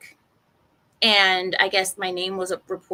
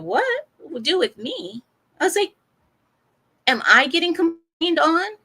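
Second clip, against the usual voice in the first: shocked what; 7 semitones higher, 4 dB louder than usual. Retold or imitated. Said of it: "I said".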